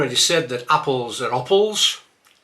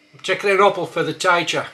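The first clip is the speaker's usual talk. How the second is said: a bit louder, taking said taikin, apple as opple, teacher as taicher; broad Black Country sentence; Black Country accent, broad vowels; 4 semitones higher, 5 dB louder than usual. Shown as a demonstration. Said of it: "start with a few words".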